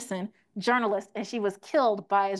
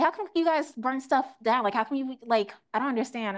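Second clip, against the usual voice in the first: mock questioning voice; 3 semitones higher than usual. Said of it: "that's what I heard all twenty twenty".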